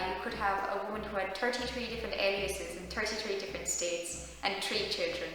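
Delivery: lightly demonstrated Irish accent, TH turned to T. Shown as a demonstration. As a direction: show off an Irish lilt on the threes. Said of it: "so you say thirty-three".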